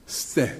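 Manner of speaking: tongue behind the front teeth for a lisped "Ste"; clipped lisp. Shown as a demonstration. Speaker demonstrating the last syllable, clipped lisped "Ste". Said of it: "might be described as a clipped list".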